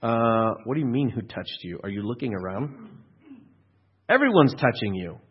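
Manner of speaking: sarcastic. Acted. Disciples to Jesus in a pushing crowd, sarcastic. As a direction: question him with dry sarcasm. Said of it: "read the sarcasm in their voice".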